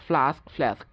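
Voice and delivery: ফ্লাস্ক first as FLAHSK, then as FLESK; ফ্লাস্ক twice, open AH then cat vowel; British then American. Shown as a demonstration. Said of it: "আমেরিকানরা বলে এ". (ফ্লাস্ক প্রথমে আ, পরে অ্যা উচ্চারণে)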